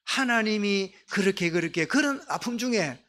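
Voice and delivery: ordinary delivery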